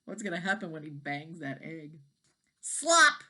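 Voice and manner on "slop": a loud, high splat of egg; splat sound. A narrator's reading. Storyteller to kids, loud high splat. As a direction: punch out the mess noise.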